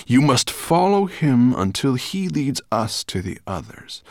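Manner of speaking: loud, emphatic command; grunted order. A narrator's reading. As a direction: press the order on your servant. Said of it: "grunted Nettlebrand".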